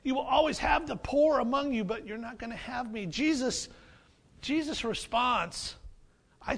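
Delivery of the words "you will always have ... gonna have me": sarcastic. Retold or imitated. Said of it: "a little bit of the sarcasm coming from Jesus".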